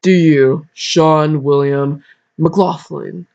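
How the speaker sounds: slow, solemn wedding preacher. Pretend. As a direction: officiate slowly like a preacher. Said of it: "Give my preacher voice".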